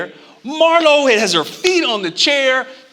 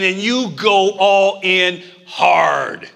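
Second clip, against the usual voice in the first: preaching shout; 3 semitones lower, much slower than usual. Acted. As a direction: drive every word home. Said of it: "preacher builds".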